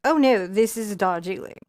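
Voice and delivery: light mock posh British accent; a hint of a posh English tea snob. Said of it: "don't know why you became posh".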